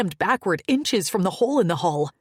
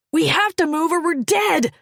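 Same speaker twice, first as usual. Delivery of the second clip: high, loud urgent shout; shouted back; 11 semitones higher, 6 dB louder than usual. A narrator's reading. Maddock shouting back at Fleck mid-fall. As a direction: shout back over the danger. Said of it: "he shouted back".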